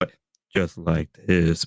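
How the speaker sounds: very low, deep voice at bottom of range. Showing the most that can be done with voices: really low register voice. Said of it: "bring my voice to a really low register".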